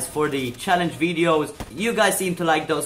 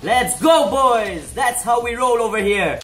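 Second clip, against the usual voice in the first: frat bro; 4 semitones higher than usual. Real, not acted. Celebrating a kill, hyping himself.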